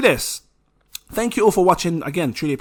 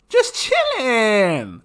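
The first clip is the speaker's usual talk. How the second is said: very slow, high, lazy chilling; lazy singsong just chilling; drawn-out chilling; 5 semitones higher, much slower than usual. Real, not acted. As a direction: stretch it out, totally relaxed.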